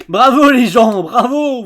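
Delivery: booming sarcastic bravo; loud mock applause. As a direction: clap them down with scorn. Mocking villain applause line.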